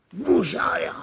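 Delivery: hushed, breathy repeat; whispered echo. Retold or imitated. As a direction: whisper the phrase.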